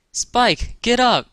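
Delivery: high-pitched wake-up call. A narrator's reading. Twilight wakes Spike in bed, calling out. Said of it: "she called".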